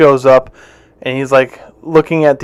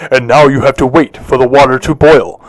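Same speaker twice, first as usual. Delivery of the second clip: Number one man; 2 semitones lower than usual. Retold or imitated. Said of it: "Number one man's like".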